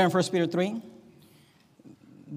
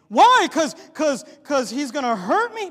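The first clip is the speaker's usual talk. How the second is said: mock question; 9 semitones higher, 11 dB louder than usual. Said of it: "mocking answer".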